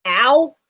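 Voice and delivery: sudden yelp of pain; sharp ow from a back spasm. Real, not acted. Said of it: "Sorry, back spasm".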